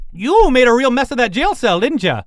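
put-on high, animated old lady voice; chatty elderly woman. Elderly woman to jailbreaker, high and impressed. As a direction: needle and praise at once.

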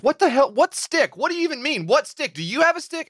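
high, panicked questions; frantic. Retold or imitated. Frantic retort to therapist.

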